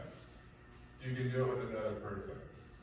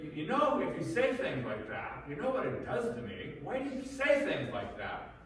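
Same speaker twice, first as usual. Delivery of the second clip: whiny victim; 9 semitones higher, 4 dB louder than usual. Retold or imitated. Abuser playing victim to wife.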